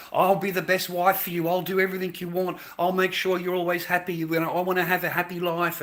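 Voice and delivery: lightly mocking the promising bride; mock sweet wife. Mocking the bride's sweet promises to her new husband. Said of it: "the fairy tale that you get sold".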